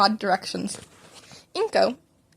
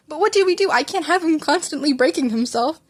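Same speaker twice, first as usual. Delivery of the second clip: higher, louder anxious plea; worried mother; 5 semitones higher, 4 dB louder than usual. A narrator's reading. Mother to the doctor about her son, anxious. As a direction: press the doctor in rising worry.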